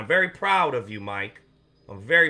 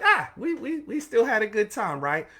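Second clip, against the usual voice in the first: much higher, sing-song yes-man voice; mock eager reply; 7 semitones higher than usual. Agreeing to his social media director in a high mock-eager voice. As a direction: play the eager employee who gives in. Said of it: "But I'm like".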